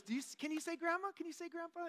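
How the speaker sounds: very high mock baby-talk voice; coaxing a toddler. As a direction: imitate a waitress coaxing a little one to talk. Waitress coaxing the toddler to speak.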